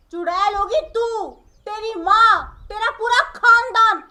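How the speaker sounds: loud, furious comeback; shouting in a heated family quarrel; angry shout. Acted. Bahu hits back at insult.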